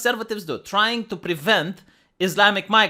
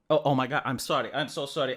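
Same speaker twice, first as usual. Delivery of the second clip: mock hushed apology; 6 semitones lower, 6 dB quieter, faster than usual.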